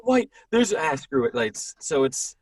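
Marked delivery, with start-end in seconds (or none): 0.0-1.3 much higher, louder startle dropping to resignation; hammed-up shock fading to resignation; mock alarm then giving up. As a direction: spot it, then shrug it off. Finding gray in beard.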